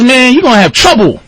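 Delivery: imitated street warning, high; gangster. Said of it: "This is gangsta outside".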